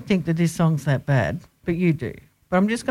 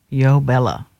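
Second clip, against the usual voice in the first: drawn-out, lower "Yo Bella"; odd delivery; 5 semitones lower, 4 dB louder, slower than usual. Real, not acted. Host plugging where they ate, oddly drawn out. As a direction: stretch the YO in a low voice. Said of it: "Why did you say it like that?".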